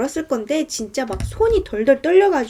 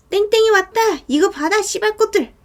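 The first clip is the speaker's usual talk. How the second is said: high, raised-voice yell; acted calling out; 8 semitones higher, 3 dB louder than usual. Attacker outside handing over the hammer, rough yell. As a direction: call out roughly, pitched up.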